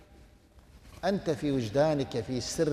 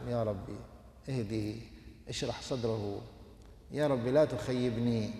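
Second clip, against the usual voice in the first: hushed, lower pleading prayer; soft private prayer; 5 semitones lower, 9 dB quieter than usual. Acted. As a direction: pray it under your breath. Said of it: "في سرك تدعو الله". (دعاء هامس خافت بصوت منخفض)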